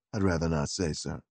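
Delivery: a low, deferential gentleman's gentleman; valet Beauregard. Acted.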